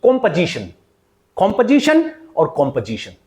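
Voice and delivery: "composition" as KOM-puh-ZI-shun; correct pronunciation. Shown as a demonstration. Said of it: "will pronounce this word". ("composition" का सही उच्चारण दोहराते हुए)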